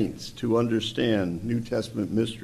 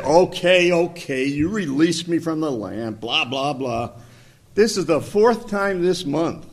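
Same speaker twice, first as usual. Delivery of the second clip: grumpy genie; 3 semitones higher than usual. Acted. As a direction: play a fed-up, grumbling genie. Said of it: "he was kind of a grumpy genie".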